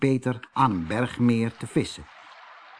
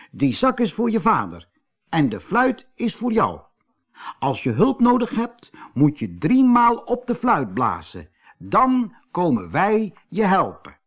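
high, bright-eyed little mountain man; high little gnome voice, proud of his big day; cheerful little man; 5 semitones higher than usual. A narrator's reading. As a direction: play the tiny man, pleased and chatty. Little man explains gifts.

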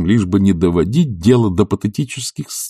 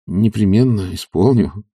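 caustic. Acted. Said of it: "едко отвечал Обломов".

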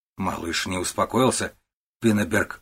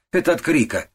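"Это от крика" snapped much higher and louder, "Это" stressed; impatient, dismissive snap; cross retort, pitch jumping up on "Это"; irritated; 8 semitones higher, 4 dB louder than usual. A narrator's reading. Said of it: "Пиннеберг был не в духе".

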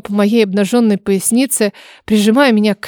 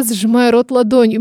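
usual speaking voice

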